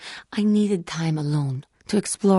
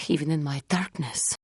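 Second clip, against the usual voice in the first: hushed, breathy admission of weakness; whisper; 4 dB quieter than usual. Acted. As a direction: let it fall away into a whisper. Fallen Jedi confessing defeat.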